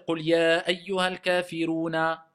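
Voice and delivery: "kafiruna" recited with its last a sounded; "kafiruna" drawn out, ending on an open vowel; final vowel pronounced. Shown as a demonstration. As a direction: chant the verse through to the a of "kafiruna". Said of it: "je ne vais pas dire".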